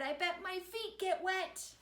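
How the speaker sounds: high, slowed mother pig; mother's high line. A narrator's reading. Mother decides to jump in, high and slow. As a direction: lift it high and drawn out. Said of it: "She said".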